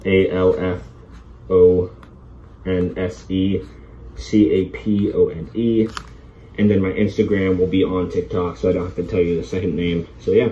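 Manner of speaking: muffled behind face mask; speaking inside respirator; through a gas mask. Real, not acted. Seen 5: Full-face gas mask worn throughout; reference frames show bare face.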